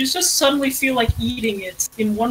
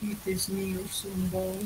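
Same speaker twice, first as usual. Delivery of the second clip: Russian-ish voice; 2 semitones lower, 11 dB quieter, slower than usual. Acted. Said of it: "the reason I can start doing that voice".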